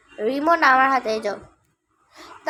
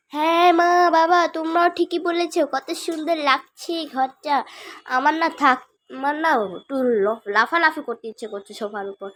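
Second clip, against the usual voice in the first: lightly voiced excited child; a kid who wants to jump on the sofa. Child tells parents about the clean room, light child voice. Child figure admires house.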